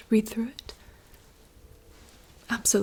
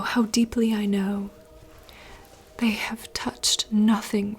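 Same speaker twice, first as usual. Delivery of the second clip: slow, hushed theatrical reading; whispered dramatic monologue. Acted. Reading a princess's forest monologue aloud in rehearsal, hushed theatrical whisper. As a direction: whisper the lines like a stage soliloquy.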